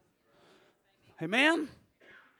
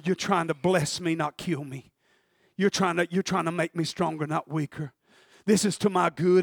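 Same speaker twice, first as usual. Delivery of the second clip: much softer and lower, hushed; David alone with God, hushed; quiet prayer; 7 semitones lower, 5 dB quieter than usual. Acted. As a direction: pray alone, barely above a breath. David praying alone, surrounded.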